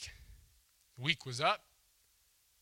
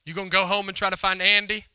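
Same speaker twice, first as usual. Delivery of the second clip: loud, higher, preaching at full force; rousing call; 5 semitones higher, 7 dB louder than usual. Real, not acted. Preacher urging his standing congregation, loud and rousing. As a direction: lift the room with it.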